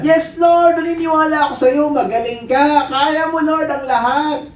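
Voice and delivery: high-pitched gushing declaration; hammed-up enthusiasm, stretched at the end; eager believer. Believer answering God, overeager high praise.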